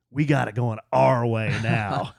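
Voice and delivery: slow, drawn-out catchphrase; lightly voiced boy echoing his father; son copying dad. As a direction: lay it out slowly, like dad's saying. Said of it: "he's starting to talk like me".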